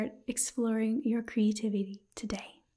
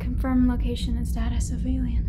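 louder spoken roleplay, giving orders; sci-fi crew member; 7 dB louder, faster than usual. Acted. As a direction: call out commands to the ship computer, louder. Sci-fi roleplay after escaping alien.

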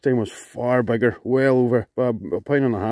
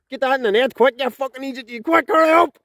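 excited; 11 semitones higher than usual. Real, not acted. Urging friend to net fish.

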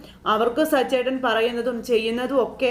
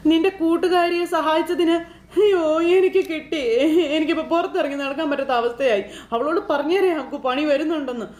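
higher, half-laughing lament; laughing complaint; 6 semitones higher than usual. Retold or imitated. Beeranikka complaining to Meera, half laughing. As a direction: moan about your trouble through a laugh.

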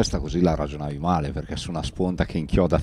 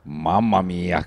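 amazed; much slower than usual. Real, not acted. Amazed after the miss.

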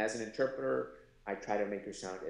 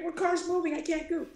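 dry mock reply; 4 dB louder than usual. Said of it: "I'm like".

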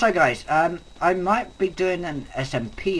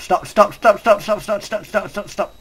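frantic pleading; 2 semitones higher, 5 dB louder than usual. Real, not acted. Begging the spiders to stop.

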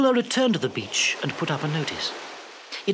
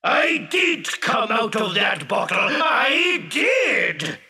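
hurt, insistent genie; 6 semitones higher, slower than usual. Acted. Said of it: "bottom lip began to tremble".

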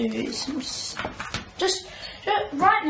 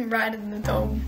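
laughing; 3 semitones lower than usual. Real, not acted. Repeats announcer line, laughing.

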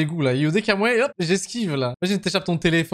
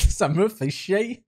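slow, drawn-out imitation of a caller's English accent; parroting the caller's accent to mock it; mock English-accented French; much slower than usual. Streamer mimics the angry caller's English accent, slow and mocking. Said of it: "c'est comme ça que vous me voyez, avec mon accent québécois".

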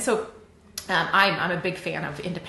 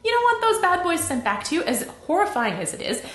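ordinary talk, nothing marked

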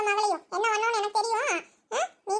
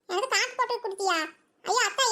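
ordinary talk

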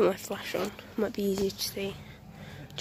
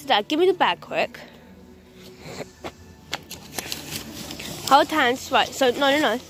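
loud directing; 2 semitones higher, 5 dB louder than usual. Real, not acted. Directing family photo.

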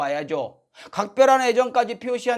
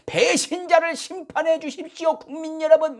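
high, louder pleading address to the nation; mock TV appeal; 9 semitones higher, 4 dB louder than usual. Mocking the former president's TV address, high impassioned plea. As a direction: ham up a president's plea to voters. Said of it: "막 그랬죠".

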